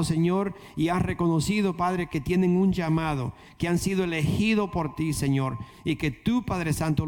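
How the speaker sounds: rising, pleading prayer to the Father; fervent prayer. Acted. Pastor praying over the congregation, fervent and rising. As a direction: pray over the standing church with building fervour.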